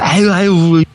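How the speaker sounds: a grandma hushing another, imitated; soothing grandma. Other grandmas calming the angry one, lightly voiced. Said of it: "하니까".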